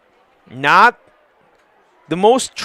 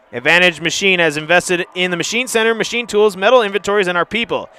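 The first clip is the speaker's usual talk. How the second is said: even, softer ad-read voice; sponsor ad read; 3 dB quieter, faster than usual. Acted. Commentator reading a sponsor ad between plays, ad-read voice. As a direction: read the sponsor spot smoothly.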